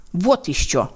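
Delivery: dismissive haughty scoff. Acted. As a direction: sniff at her arrogantly. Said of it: "высокомерно откликнулся".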